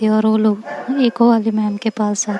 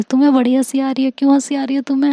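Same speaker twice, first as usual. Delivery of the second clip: fast jealous jab; 2 semitones higher, 4 dB louder, faster than usual. Acted. Jealous Tanya confronts laughing Ishika.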